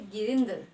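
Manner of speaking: गिरिंदर with force on the short "rin"; teacher demonstrating the stress in गिरिंदर; stressed syllable. Shown as a demonstration. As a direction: press firmly on the middle of गिरिंदर. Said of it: "जोर पड़ रहा है".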